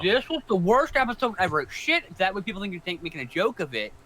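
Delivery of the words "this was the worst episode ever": high, loud mocking troll rant. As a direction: sneer it like an internet troll. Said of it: "do the whole video in your troll voice".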